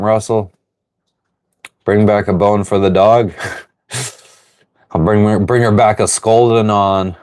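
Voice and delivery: ordinary delivery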